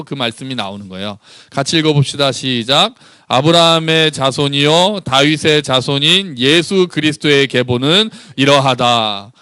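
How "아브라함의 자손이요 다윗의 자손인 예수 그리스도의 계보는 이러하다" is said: slow, measured Bible reading; scripture reading. Acted. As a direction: lead the congregation through the verse slowly. Leads congregation reading scripture. (천천히 또박또박 성경 봉독)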